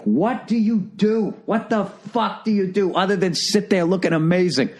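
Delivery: high, incredulous outburst at bored women; exasperated mock rant. Comic to the beautiful women, a high exasperated rant. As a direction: let the disbelief spill out, half laughing. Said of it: "always fight the urge to be like".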